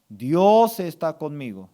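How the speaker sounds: weighty stress on "Dios"; firm affirmation. Shown as a demonstration. Pastor gives congregation words to accept, firm affirmation. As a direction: declare it as settled truth. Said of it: "Usted tiene que aceptar".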